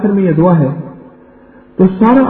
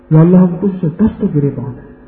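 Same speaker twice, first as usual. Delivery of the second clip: lightly imitated Pashtun accent, lower prayer tone; Pashtun cleric's accent; 5 semitones lower than usual. Preacher imitating a Pashtun imam at Eid prayer, mild Pashtun accent. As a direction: mimic a Pashtun imam's Urdu, half-earnest. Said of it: "ایک پٹھان اور عالم نے دعا مانگی".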